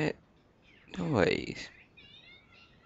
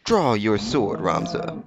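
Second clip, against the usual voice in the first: game villain quote; slower than usual. Retold or imitated. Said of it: "Ramza boss quote".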